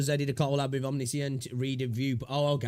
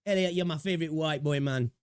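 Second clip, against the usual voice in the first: put-on Jamaican accent; 4 semitones higher than usual. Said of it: "Terrible accent".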